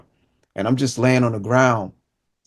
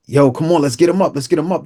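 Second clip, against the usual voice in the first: higher-pitched urgent street talk; urging; 5 semitones higher, 3 dB louder than usual. Retold or imitated. Rescuer urges his partner to lift the wounded boy, urging. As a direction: imitate someone rallying a partner to act.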